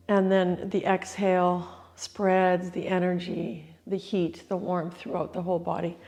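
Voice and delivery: losing voice, a bit hoarse; strained hoarse voice. Real, not acted. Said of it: "I'm losing my voice this morning".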